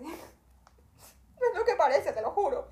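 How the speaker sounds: slow, high, laughing through the words; laughing plea. Retold or imitated. Traveller laughs and pleads with the airport agent, high and slow. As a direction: laugh as you swear it's innocent. Laughing retake of her excuse.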